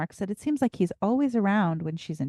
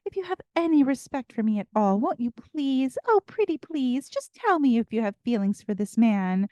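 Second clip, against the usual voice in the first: higher-pitched pleading, playing the victim; mock moping; 4 semitones higher than usual. Recapping Emily begging Lorelai to confess, mock moping. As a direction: imitate a guilt-tripping mother begging for an answer. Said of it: "plays the victim card and starts moping".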